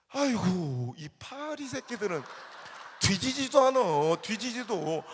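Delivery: slow, loud rural grumble; grumbling old farmer. Retold or imitated. Preacher voicing the old farmer ignoring the price, slow loud drawl. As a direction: drawl out the fly complaint. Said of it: "grandfather's reply".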